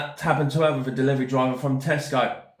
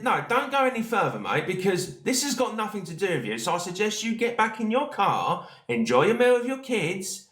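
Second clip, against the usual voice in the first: higher, firm back-off warning; 6 semitones higher than usual. Retold or imitated. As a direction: tell him to back off, firm and controlled. Retold confrontation with a stranger.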